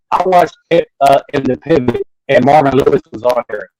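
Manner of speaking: choppy bad call connection; breaking up. Real, not acted. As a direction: voice cutting out on a call. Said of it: "yo, you're breaking up real bad".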